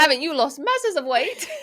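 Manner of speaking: high, loud British attempt, slightly Irish; botched British accent. Co-host retries the queen's line, hammed-up British accent. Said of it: "It's like Irish".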